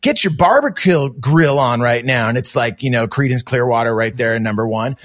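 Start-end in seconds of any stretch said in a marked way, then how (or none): 0.0-2.3 mock radio promo.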